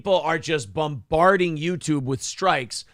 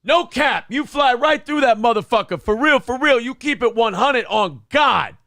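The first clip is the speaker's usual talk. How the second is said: hyped-up bro voice; 7 semitones higher, 5 dB louder than usual. Retold or imitated. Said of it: "Yeah, just like".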